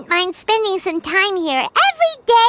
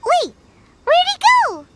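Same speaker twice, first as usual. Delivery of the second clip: surprised; 7 semitones higher than usual. Acted. Paimon notices he vanished.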